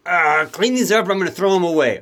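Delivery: mock frustrated parent. Parent who just stepped on a Lego, mock frustrated. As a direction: playfully fake exasperation over scattered Legos. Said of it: "You're like".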